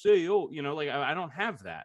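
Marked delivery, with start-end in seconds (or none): 0.0-0.8 quick, light New York accent; brief mock New York greeting. Shown as a demonstration. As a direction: toss off a hint of New York. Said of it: "I should be talking like this".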